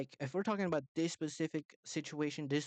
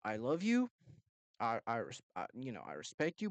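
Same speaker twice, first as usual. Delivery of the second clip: soft-voiced firmness toward a husband; stern yet soft; 3 semitones lower than usual. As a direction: gently lay down the law. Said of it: "but yet soft voice".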